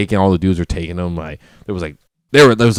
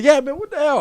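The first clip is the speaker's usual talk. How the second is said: high rowdy shout; hollering from the table; drunken yell; 4 dB quieter than usual. Retold or imitated. Back on table, yelling.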